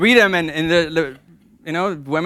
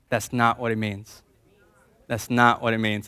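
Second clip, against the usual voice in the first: congregation call and response; 5 semitones lower, 6 dB quieter than usual. Shown as a demonstration. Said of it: "Ladies, can you say it with me?".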